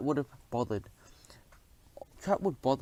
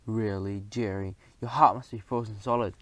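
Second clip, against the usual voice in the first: mock shriek; 3 semitones lower, 4 dB louder than usual. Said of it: "Thea shrieked".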